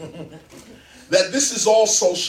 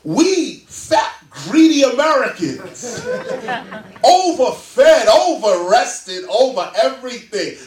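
laughing mockery; 5 semitones higher, 5 dB louder, slower than usual. Real, not acted. Mocking greedy Americans, laughing.

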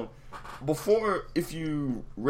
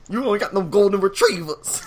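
high, loud, crying quote; mock whiny caller; 9 semitones higher, 7 dB louder than usual. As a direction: whine it like a wounded caller. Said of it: "that nigga was like".

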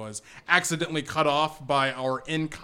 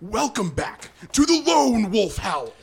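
wolf voice; 6 semitones higher, 6 dB louder than usual. Pretend. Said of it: "it's a welcome back, right?".

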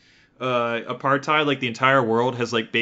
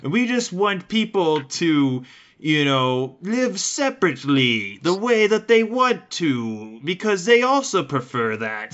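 Afrikaner apologist voice; 5 semitones higher, slower than usual. Retold or imitated. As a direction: play a smug old-school Afrikaner insisting he's not racist. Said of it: "you'd have these Dutch people that are like".

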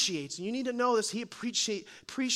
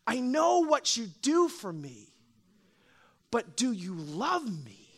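tender plea; slower than usual. Acted. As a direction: ask gently, letting it land. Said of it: "this incredible story is saying".

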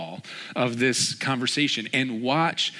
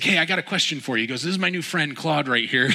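higher, lively imitation of an entertainer; demonstrative; 6 semitones higher, 4 dB louder than usual. Man introduces his new friend to Jim, demonstrative. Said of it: "very demonstrative person and super entertaining".

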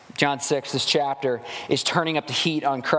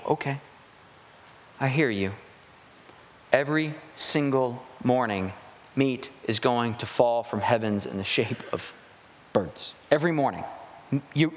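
calm reassurance; 4 semitones lower than usual. Retold or imitated. God answering the grumblers.

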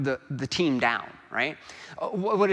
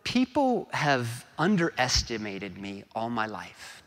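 higher-pitched, earnest retelling of a coach's speech; Ted Lasso; 3 semitones higher than usual. Retold or imitated. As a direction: lightly voice the coach telling his story. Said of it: "try to get the gist of it, of Ted Lasso's words".

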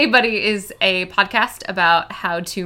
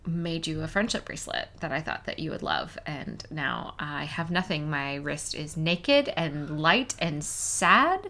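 mock heartbroken; 4 semitones lower, 7 dB quieter than usual. Pretend devastated, no gift.

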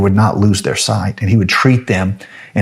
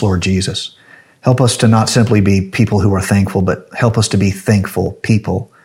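closing prayer. Acted.

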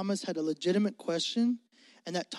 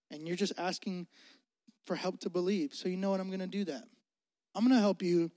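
softer, tender reassurance; gentle Jesus; 3 semitones lower, 4 dB quieter than usual. Retold or imitated. Jesus gently answering Thomas's doubt, soft and kind. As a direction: speak kindly to a doubting friend. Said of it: "he's like".

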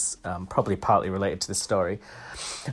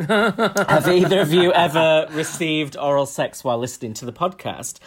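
reading through hiccups and giggles; 4 semitones higher than usual. Real, not acted. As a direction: read the question, hiccuping. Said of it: "sorry, I'm hiccuping".

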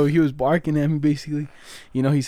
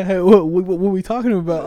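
mock waiter; 5 semitones higher, 6 dB louder than usual. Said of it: "He's like".

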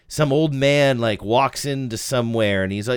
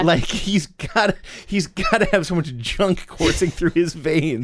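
jazz cat voice; 7 semitones higher than usual. Pretend. Jazz junkie caricature.

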